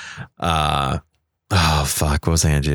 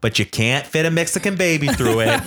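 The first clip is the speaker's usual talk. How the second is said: hammy Trump rally brag about a wall; Donald Trump impression; 2 semitones higher than usual. Host showing off his Trump voice to his cohost. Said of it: "I told you I'm working on it".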